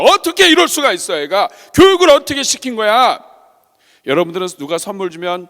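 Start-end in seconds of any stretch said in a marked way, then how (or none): 0.0-3.2 high, loud parental rant; angry outburst. Acted. Father driving home, fuming over the rude child, angry. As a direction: act out an outraged parent's shout. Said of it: "운전하고 가다가 막 화가 났어요".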